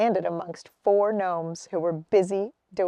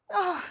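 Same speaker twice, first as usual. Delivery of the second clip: sigh; 8 semitones higher, 3 dB quieter than usual. A narrator's reading. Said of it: "she gave a sudden deep sigh".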